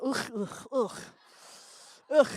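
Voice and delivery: repeated throaty "ugh"; hammed-up noises of disgust; guttural mock grunts. Mock disgust at French audience.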